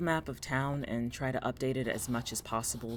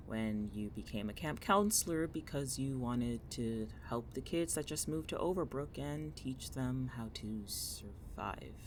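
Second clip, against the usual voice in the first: reluctant recollection; 7 dB quieter than usual. Acted. Reluctant recall of painful memory.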